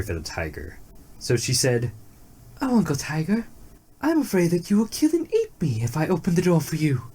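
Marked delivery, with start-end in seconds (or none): 2.6-7.0 high, timid plea; frightened deer. A narrator's reading. Deer answering the locked-up tiger, high timid worry. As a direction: shrink back, voice lifted and wary. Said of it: "The deer was frightened".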